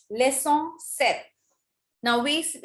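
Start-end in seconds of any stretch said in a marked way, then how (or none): 0.1-1.2 slow LEÇON SEPT, SEPT said "set"; deliberate French SEPT with silent P; correct pronunciation. Shown as a demonstration. Teacher showing students how to pronounce it correctly, slow LEÇON SEPT. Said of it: "you have to pronounce it correctly".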